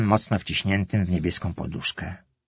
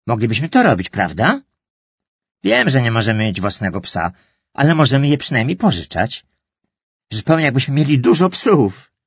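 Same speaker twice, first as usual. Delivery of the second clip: zapalony chłopak, coraz wyżej i głośniej; przekonujący brat. Acted. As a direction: namawiaj mamę z rosnącym zapałem. Brother eagerly persuades. (brat entuzjastycznie przekonuje mamę, lekko zagrany)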